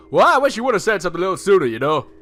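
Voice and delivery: lightly voiced governor. Governor scolding the boys, fast mild grumble. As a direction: grumble it quickly.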